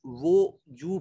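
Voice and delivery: वो जू said as two parts, not वाजू; correct pronunciation. Shown as a demonstration. Teacher repeats the right way to say वो जू. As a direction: split वो जू, never वाजू. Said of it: "इसको वाजू नहीं पढ़ेंगे".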